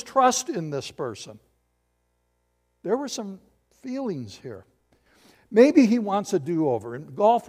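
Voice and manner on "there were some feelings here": whispered softly, no voice; a hushed aside to the congregation. Real, not acted. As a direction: lean in and whisper it.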